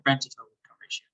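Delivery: rushed, fast explanation; quick. Real, not acted. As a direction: rattle it off fast. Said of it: "Maybe say slower".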